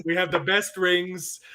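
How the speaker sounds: slow Trump brag; a hint of Trump, slowed down; Trump impression. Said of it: "Every time I try and do Trump".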